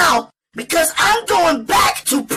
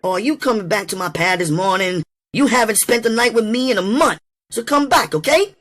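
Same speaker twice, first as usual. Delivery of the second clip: put-on high, quick woman's voice in crisp New England accent; faster than usual. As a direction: press him briskly, high-pitched, with New England diction. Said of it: "in her crisp New England accent".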